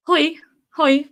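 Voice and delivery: Dutch greeting. Shown as a demonstration. Streamer showing viewers the universal Dutch greeting, high cheery call. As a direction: call out a high, punchy hello. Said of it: "universal Dutch greeting is like".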